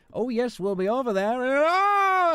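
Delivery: high, loud hammed-up Wallace impression. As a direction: chirp it like a cheerful Wallace. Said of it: "when Wallace is like".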